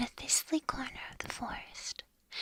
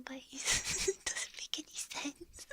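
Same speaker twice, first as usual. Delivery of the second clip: laughing; 2 semitones higher, slower than usual. Real, not acted. Host giggling at poor Eeyore, whispering through laughter. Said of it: "I shouldn't be laughing".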